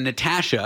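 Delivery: Natasha as a Canadian announcer says it; Canadian pronunciation. Retold or imitated. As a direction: say Natasha with the "a" of "cat". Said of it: "did the voiceover was Canadian".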